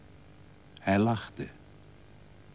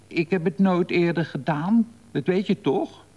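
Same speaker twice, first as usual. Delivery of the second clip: defensive protest; 9 semitones higher, 4 dB louder than usual. A narrator's reading. Defends himself after the scare.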